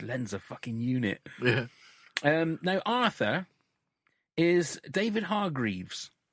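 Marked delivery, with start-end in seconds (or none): 0.0-1.2 quieter muttered aside under the breath. Retelling a TV scene, the speaker quotes a line muttered under the breath. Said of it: "a little under his breath bit".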